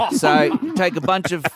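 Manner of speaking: comic South African show pitch; South African accent. Pretend. Contestant outlining the show to judge, mock South African accent. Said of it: "South African accent contest".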